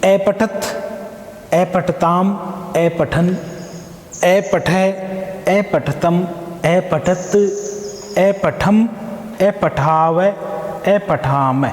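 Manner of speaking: slow, careful recitation of verb forms; recited paradigm. Shown as a demonstration. Teacher reciting the लंग लकार forms for students to memorise. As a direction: chant each form clearly with a rising end. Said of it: "तो आप इसे याद कीजिए".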